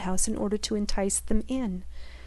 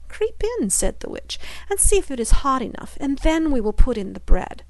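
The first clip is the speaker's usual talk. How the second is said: a higher, sly witch's invitation; coaxing witch; 4 semitones higher than usual. Acted. Witch urging Gretel to climb into the oven, sly. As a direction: tempt her toward the oven.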